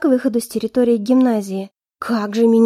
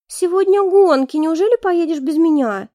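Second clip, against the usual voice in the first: put-on much higher, pleading girlish voice; whiny blonde; 6 semitones higher than usual. Blonde pleads to go to the races, high and whiny. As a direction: wheedle him like a spoiled girl.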